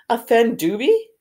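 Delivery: high, choking elf voice; a tearful house elf, choking; choked up. A narrator's reading. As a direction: squeeze it out through tears. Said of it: "choked the elf".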